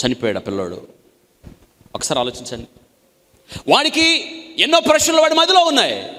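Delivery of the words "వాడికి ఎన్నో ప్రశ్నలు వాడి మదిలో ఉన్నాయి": high, loud anguished cry; a grieving preacher's outcry; preaching shout. Real, not acted. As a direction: shout it out in sorrow. Preacher cries out in grief.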